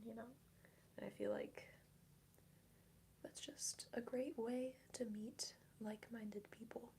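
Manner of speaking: hushed ASMR whisper; breathy whisper for the mic. Real, not acted. Soft ASMR stream chat.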